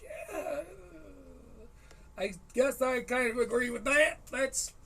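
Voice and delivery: high, unsure orc crowd voice; a hint of a confused orc. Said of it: "a spattering of confused orc applause".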